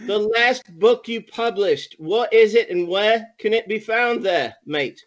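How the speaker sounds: chummy put-on English accent; hammed-up British accent; mock British accent. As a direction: coax an old pal in an imitation British accent. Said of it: "Try to talk like me".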